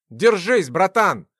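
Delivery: loud, urgent encouragement; urgent call. Acted. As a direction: hold on to him with your voice. Gleb catches falling friend.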